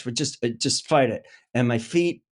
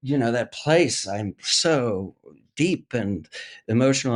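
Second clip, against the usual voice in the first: vain actor. Retold or imitated. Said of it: "the vain me is like".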